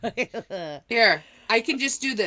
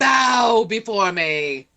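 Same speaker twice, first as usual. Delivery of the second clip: slow, louder royal command; regal empress; 5 dB louder, slower than usual. Pretend. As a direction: command the peasants to bow like a haughty empress. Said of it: "We have actual royalty in the house".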